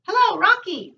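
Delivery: high squawky parrot call. Acted. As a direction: squawk it out like a talking bird. Parrot speaks in story.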